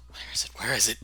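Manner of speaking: half-whispered worried self-talk; muttered searching. Acted. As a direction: mumble to yourself as you search. Character mutters while searching drawers.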